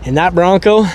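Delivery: panting after shoveling sand; breathless from digging; out of breath. Real, not acted. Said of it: "so I'm out of breath".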